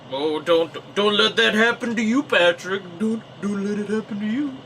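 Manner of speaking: high, loud pleading warning voice; friend's warning. Retold or imitated. Friend warning Patrick off the women's car, pleading. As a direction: beg him to avoid that fate. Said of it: "and, and that".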